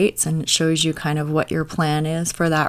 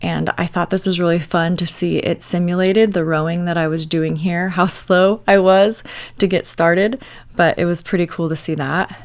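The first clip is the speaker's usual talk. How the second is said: tv through the wall; 5 dB louder than usual. Real, not acted. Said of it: "Ignore the T V in the background".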